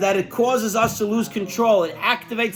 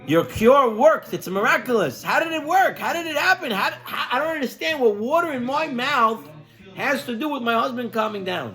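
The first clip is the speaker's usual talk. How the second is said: amazed wife; 6 semitones higher than usual. Acted. Wife amazed, asking doctor how.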